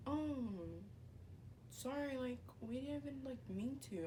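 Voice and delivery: imitated timid excuse, barely voiced; sheepish apology. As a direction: mimic a small, meek sorry. Girls' apology acted out.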